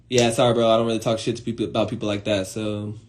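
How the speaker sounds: subdued refusal. Retold or imitated. Turning down a bro's gossip, subdued and low. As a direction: decline quietly, voice sinking away.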